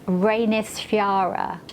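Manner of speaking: Reynisfjara carefully sounded out as an Icelandic name; attempted Icelandic pronunciation. Shown as a demonstration. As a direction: have a tentative go at Icelandic Reynisfjara. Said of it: "I'm going to try and pronounce it".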